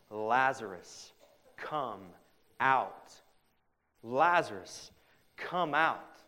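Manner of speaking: calling out loud and slow to the tomb; Jesus calling Lazarus out with a loud shout. Retold or imitated. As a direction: shout the name across to the tomb. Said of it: "he shouted in a loud voice".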